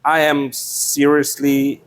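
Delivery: ordinary talk, nothing marked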